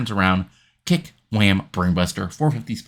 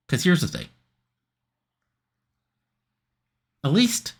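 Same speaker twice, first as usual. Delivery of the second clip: lightly voiced brash heel, pitched up; cocky wrestler promo; 2 semitones higher than usual. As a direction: sneer it at the rival with swagger. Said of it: "he takes the mic and says".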